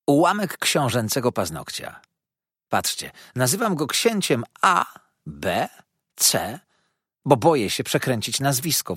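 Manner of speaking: lightly voiced chatty gossip; a hint of a sly storyteller; gossiping dwarf lady. Karlica opowiada o księciu. (lekko plotkarsko, głosem karlicy)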